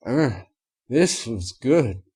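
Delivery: slow words through a fritter; filly chewing while praising; mumbling mouthful. A narrator's reading. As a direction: talk around a bite. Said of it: "mumbled around her fritter".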